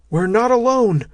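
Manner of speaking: sudden high shouted warning; urgent yelled alarm. A narrator's reading. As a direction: shout it up the tunnel. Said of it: "Matt yelled".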